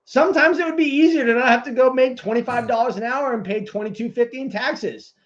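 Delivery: high, loud, fast venting at the therapist; angry outburst. Retold or imitated. Veteran telling his therapist what he really thinks, angry and loud. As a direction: let the frustration blow up in his face. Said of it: "I wanna tell my therapist".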